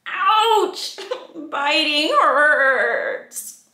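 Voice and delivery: high loud playful ouch; hammed-up ouch; emphatic refrain. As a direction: make the rule big. Loud ouch then slow line.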